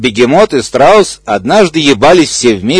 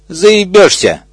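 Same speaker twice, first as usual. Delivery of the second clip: shrieked; 6 semitones higher, slower than usual. Acted. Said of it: "взвизгнул бегемот".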